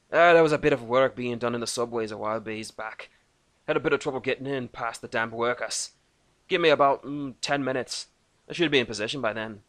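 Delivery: gruff Celtic dwarf voice; Irish-Scottish dwarf. A narrator's reading. Dwarf Thorgan answering Lucas, Scottish-Irish brogue. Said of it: "Irish, Scottish".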